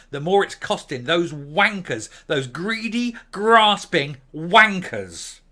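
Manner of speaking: rising loud insult, dragged out slowly; angry outburst. Real, not acted. Cursing the greedy owners, loud and furious. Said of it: "I did really kind of lose my shit".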